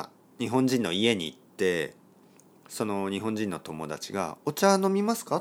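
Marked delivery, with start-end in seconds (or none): 4.5-5.4 Japanese host offering tea. Retold or imitated. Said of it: "って言ったら".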